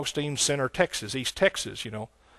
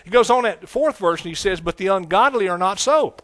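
raised, fervent preaching voice; 5 semitones higher, 7 dB louder than usual. Acted. Preacher warns his church about bad company, fervent. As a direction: press it home to the congregation.

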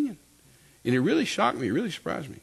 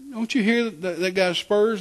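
higher-pitched retold astonishment; incredulous question; 8 semitones higher, slower than usual. Wife to husband about a sound he misses, incredulous. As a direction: imitate a wife's disbelieving question.

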